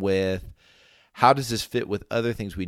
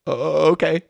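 high, louder mock-puzzled voice; pitched-up, acted hesitant agreement; taken-aback acceptance; 8 semitones higher, 6 dB louder than usual. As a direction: go along with it, thrown and unsure. Acting apostles' puzzled response.

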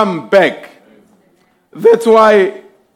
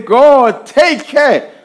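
praying mother; slower than usual. Retold or imitated. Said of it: "pray and say".

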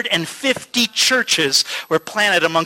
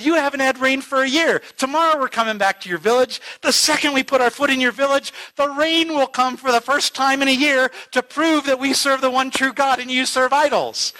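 excited challenge; 6 semitones higher than usual. Retold or imitated. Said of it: "the guy got really excited".

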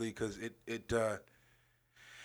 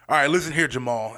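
mock stern caller; 7 dB louder, faster than usual. Customer's final jab.

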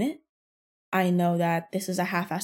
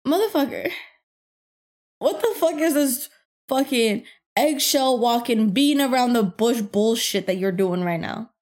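furious inner thought; 4 dB louder than usual. Retold or imitated. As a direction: vent the thought in disbelief. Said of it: "And then I'm thinking".

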